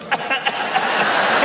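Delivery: breathy high laughter; burst of laughter. Real, not acted. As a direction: laugh out loud. Laughter after the quarrel.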